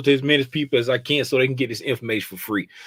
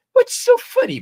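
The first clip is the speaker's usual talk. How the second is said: mock high question. Teasing viewer laughing.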